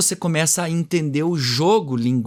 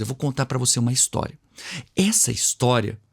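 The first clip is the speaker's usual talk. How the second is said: linguagem de história; 2 semitones lower than usual. Shown as a demonstration. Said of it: "você viu como transformou a minha linguagem?".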